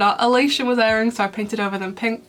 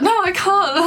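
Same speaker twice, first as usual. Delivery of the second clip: high, flustered nervous refusal; nervous Adrian; 9 semitones higher, 4 dB louder than usual. Retold or imitated. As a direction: stammer it out like a boy too shy to ask. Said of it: "And he gets so nervous".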